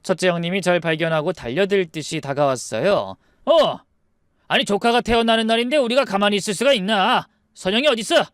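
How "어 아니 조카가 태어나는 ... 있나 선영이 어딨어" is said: indignant demand. Acted. Brother barging in to see the newborn nephew, indignant. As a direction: demand to get through, voice raised.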